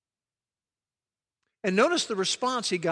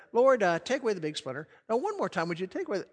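mock-casual praying, as an afterthought; casual prayer; faster than usual. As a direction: rattle off a half-hearted request. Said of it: "I don't think it went like this".

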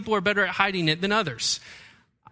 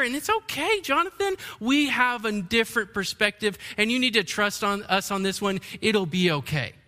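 put-on calm the boy down as a gentle lump of clay; talking clay; 3 semitones higher than usual. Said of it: "the clay never turned to me and said".

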